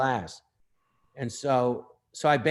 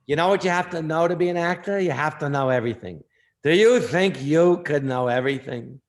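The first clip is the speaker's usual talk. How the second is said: imitating Ned Glass lecturing; 4 dB louder than usual.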